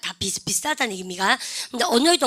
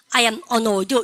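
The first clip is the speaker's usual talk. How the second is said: model reading; much slower than usual. Shown as a demonstration. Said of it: "시작".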